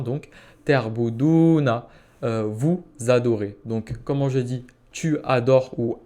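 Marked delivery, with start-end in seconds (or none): 0.7-1.9 "terbouduna" said slowly, ending "-una" clear; slow word demo. Shown as a demonstration. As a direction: spell out "terbouduna" slowly for the class. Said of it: "vous mettez una à la fin".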